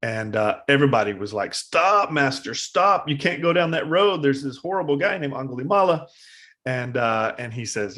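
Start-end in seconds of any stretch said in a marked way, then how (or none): 1.5-6.1 pleading followers. Retold or imitated. Followers beg Buddha not go.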